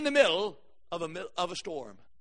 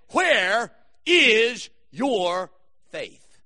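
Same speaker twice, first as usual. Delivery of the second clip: Jesus questioning the disciples; stressed question; 3 semitones lower, much slower than usual. Acted. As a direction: ask it slow and pointed. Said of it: "and he says".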